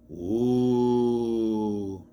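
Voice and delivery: long drawn-out mock ooh; mock-spooky ooh. Reviewer mocks the unfound body teaser, mock-spooky. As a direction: feign eerie suspense with one held ooh.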